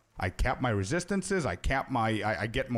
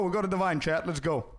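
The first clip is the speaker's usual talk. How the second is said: a bit higher, upbeat hype; mildly excited cheer; 4 semitones higher than usual. Shown as a demonstration. Streamer hyping a drop for chat, excited. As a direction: keep the cheer rolling. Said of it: "I'm gonna do the Scorpius way".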